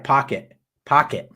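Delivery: "Pocket" with a Boston accent, R dropped. Shown as a demonstration. Host correcting co-host's attempt, demonstrating Boston accent. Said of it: "doing the whole thing in a Boston accent".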